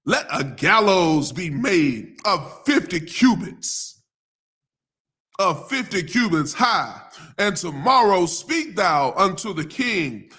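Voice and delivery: slow, emphatic Bible reading; measured pulpit read-aloud; scripture reading. Acted. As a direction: proclaim the verse, drawing out the key words.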